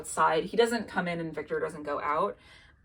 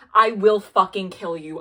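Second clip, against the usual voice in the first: angry threat; 7 dB louder than usual. Retold or imitated. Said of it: "goes off".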